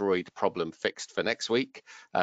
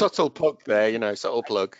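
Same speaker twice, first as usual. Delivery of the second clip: playful ribbing, higher and louder; teasing; 4 semitones higher, 6 dB louder than usual. Real, not acted. Host teasing guest about plugging his client, playful. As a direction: needle him about the plug.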